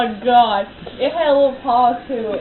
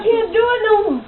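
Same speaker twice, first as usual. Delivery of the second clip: laughing; 9 semitones higher than usual. Real, not acted. Laughing fit while burping.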